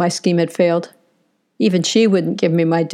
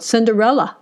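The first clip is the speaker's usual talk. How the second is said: yelled name; 4 semitones higher than usual. Acted. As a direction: call the name out, a bit higher. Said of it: "so I yelled".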